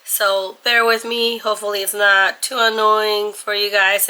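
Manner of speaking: hoarse, strained voice; lost voice. Real, not acted. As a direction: talk through a hoarse throat. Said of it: "lost my voice".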